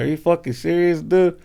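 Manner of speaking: hammed-up angry shout; mock yell. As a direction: retell her indignant yell. Lady angry about soiled drawers.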